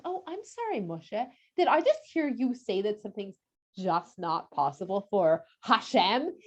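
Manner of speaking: soft, sarcastic disbelief; quiet, teasing Hashem; mock offended. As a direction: pretend to be shocked and hurt. Hashem mockingly challenges Moshe.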